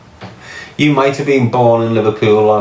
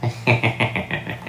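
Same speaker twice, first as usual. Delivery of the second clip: mocking horse snicker; 8 dB quieter than usual. Showing what the horse-mouthed man is like, mocking snicker. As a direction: imitate a toothy horse-like laugh, quietly. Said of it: "That's what he's like".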